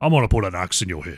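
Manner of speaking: deep, wide, big voice. A player quoting the character at the start of a match, in a Zul'jin voice. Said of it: "I don't have the the wide the wide voice".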